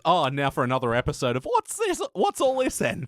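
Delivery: high, hammed-up British voice for "What's all this then?"; mock British accent. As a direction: play a silly British bobby. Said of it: "that's just the accent we use".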